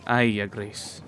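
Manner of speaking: lightly put-on rustic country accent; a touch of rural English accent; mild rustic English accent. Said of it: "with no more of that accent".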